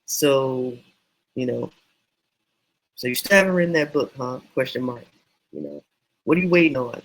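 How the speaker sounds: punchy, quick teasing jab at the reader; a light mock challenge to the reader; teasing hook. Shown as a demonstration. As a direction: needle the reader into action. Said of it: "my example might be".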